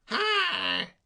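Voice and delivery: sudden high breathless hail; a high "Hi!" flung after a vanishing car; shout. A narrator's reading. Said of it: "shouted Soapy".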